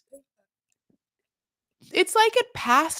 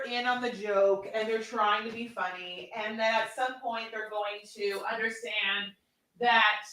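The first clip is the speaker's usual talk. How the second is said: hushed, halting musing; 6 dB quieter than usual. Real, not acted. Long halting, hushed build to point.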